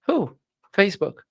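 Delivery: high, mocking reply in a retold argument; mock high retort. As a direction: squeak it out like a sassy comeback. Quoting stepfather argument.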